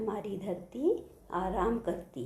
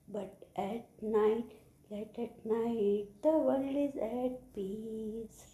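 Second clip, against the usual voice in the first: slow, drawn-out closing verse; poem recitation; much slower than usual. Shown as a demonstration. Teacher reciting the poem for children, slow recitation. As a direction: stretch the words to a slow close. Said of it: "I am going to recite the poem".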